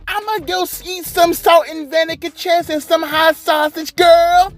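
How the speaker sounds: high, mocking sassy voice with drawn-out "girl"; mocking Bianca Belair. Vlogger mocks Bianca Belair's backstage boast, in a high sassy voice. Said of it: "she essentially is just like".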